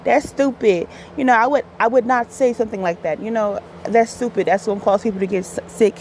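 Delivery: mock-British retort, only half managed; Idris Elba. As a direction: have a rough go at a British accent. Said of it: "I can't do his accent".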